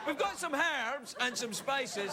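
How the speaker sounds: high, slow "herbs" with a strong H; drawn-out "herbs", H fully pronounced; H sounded in herbs. Acted. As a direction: hit the H of "herbs". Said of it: "You have to say the letter H".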